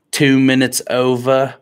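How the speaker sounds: put-on British-accented radio callout. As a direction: imitate a British radio voice announcing. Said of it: "do the British accent".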